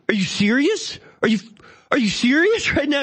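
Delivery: rising, shocked and indignant; outraged disbelief. Retold or imitated. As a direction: imitate the brother-in-law losing it. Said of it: "He's, like, so mad".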